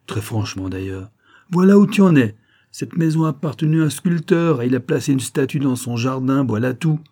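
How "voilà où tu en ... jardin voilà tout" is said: high, loud, breezy explanation; hearty, dismissive exclamation easing off; amused, laughing manner. A narrator's reading. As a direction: burst out in open mockery, then explain it away. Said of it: "continuai-je en riant, très franchement d'ailleurs".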